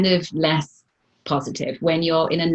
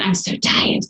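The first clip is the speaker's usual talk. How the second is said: tagged complaint; 2 semitones higher, 4 dB louder than usual. Retold or imitated. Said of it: "That's what I often say".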